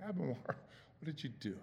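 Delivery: play-acted grieving, heartbroken parent's voice. Voicing god questioning adam after the sin: brokenhearted father's voice. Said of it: "This is the voice of the brokenhearted father".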